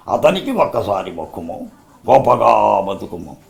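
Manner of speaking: measured, lordly officer persuading; stately period-film dialogue with pauses; grand but restrained coaxing; Jaggayya as Rutherford. Acted. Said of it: "వాళ్ళిద్దరు ఏ విధంగా dialogue చెప్పారు".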